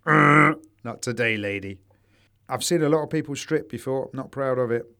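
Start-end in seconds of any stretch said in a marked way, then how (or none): 0.1-1.8 slow, louder deadpan refusal; a light Bill Hicks-style line; Bill Hicks bit. Retold or imitated. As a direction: drag it out flatly, like a comedian's punchline. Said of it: "It's the Bill Hicks thing".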